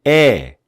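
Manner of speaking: 에 slow and bright; 에 lifted bright; bright E sound. Shown as a demonstration. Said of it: "좀 밝게". (밝게 올린 에)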